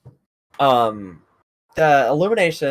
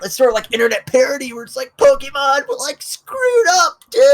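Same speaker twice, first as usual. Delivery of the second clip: high, loud, laugh-cracked shouting; 12 semitones higher, 6 dB louder than usual. Real, not acted. Laughing, shouting about parody.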